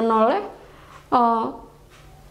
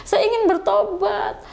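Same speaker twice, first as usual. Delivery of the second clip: higher-pitched pleading to God, retold; retold pleading prayer; 4 semitones higher than usual. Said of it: "Umi bicara sama Allah". (memohon kepada Allah, nada meninggi)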